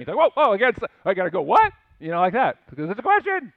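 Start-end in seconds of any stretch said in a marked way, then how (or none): 0.2-1.7 startled. Pretend. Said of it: "you get startled at the end".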